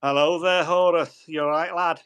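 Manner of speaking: chirpy Scouse greeting, lightly put on; Scouse accent. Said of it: "he actually spoke with an accent".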